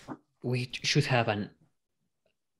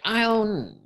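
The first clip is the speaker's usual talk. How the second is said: witch voice; 11 semitones higher, 4 dB louder than usual. Retold or imitated. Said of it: "I'm sure that's not her voice".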